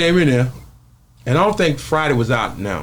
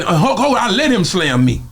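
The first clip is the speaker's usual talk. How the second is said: Debo's voice; 7 semitones higher than usual. Retold or imitated. Debo explaining.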